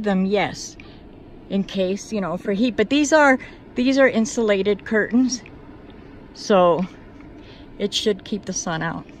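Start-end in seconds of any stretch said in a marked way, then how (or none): 2.8-9.1 slightly out of breath from altitude. Real, not acted. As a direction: talk while short of breath. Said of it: "I'm out of breath because the altitude".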